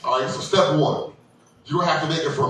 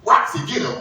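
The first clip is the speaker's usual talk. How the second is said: put-on sly old rider; 3 semitones higher, 4 dB louder than usual. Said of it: "he be like".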